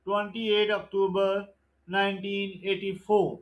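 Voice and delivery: slow, deliberate exam-question read; measured MCQ recitation; slow quiz reading. Acted. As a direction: dictate each question and option slowly. Reads MCQ question and answer.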